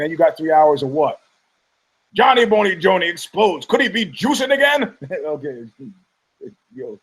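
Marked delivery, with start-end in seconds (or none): 2.1-5.0 mock tabloid headline.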